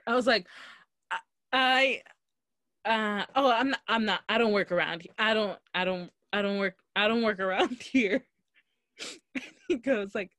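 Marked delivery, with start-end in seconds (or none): 1.1-8.3 flustered restarts, amused retelling; panicked stammering. Retold or imitated. Customer dodges cashier asking her store, flustered stammer. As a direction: stumble over the excuse, mock panic. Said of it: "I panicked so bad".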